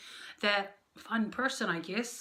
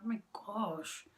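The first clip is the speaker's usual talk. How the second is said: soft slow whisper; whispered oh my gosh; 7 dB quieter, slower than usual. Real, not acted. Knees aching on the floor, whispered groan of oh my gosh. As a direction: breathe it out under your breath. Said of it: "my knees really hurt right now".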